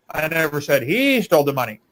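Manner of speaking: long, emphatic HE; stress on HE. Shown as a demonstration. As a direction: hit the word he, stretching it. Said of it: "emphasizing different words in that sentence".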